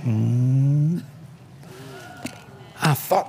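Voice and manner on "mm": low, drawn-out "mm"; steady low imitated hum; imitated gauge hum. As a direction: hum like a mechanism moving. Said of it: "and the gas then went".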